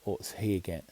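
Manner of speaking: o seigen with a clear breathy h after the s; careful h in seigen. Shown as a demonstration. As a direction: say o seigen slowly, sounding out s then h. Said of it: "blow through these H's".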